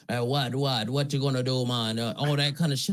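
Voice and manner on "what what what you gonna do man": lightly imitated fake Jamaican accent; a hint of put-on Jamaican. Mimicking the man who pulled a fake accent, light mock Jamaican. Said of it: "he has this fake Jamaican accent".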